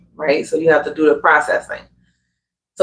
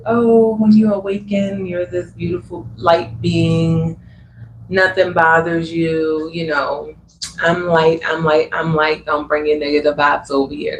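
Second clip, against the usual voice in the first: mocking airy spiritual voice. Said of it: "that's all I was seeing on the internet".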